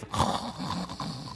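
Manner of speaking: soft, voiceless sleeper's breathing; imitated sleeping breath. Kid asleep on the field, mock sleeping breath. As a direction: mime a sound sleep with breath alone.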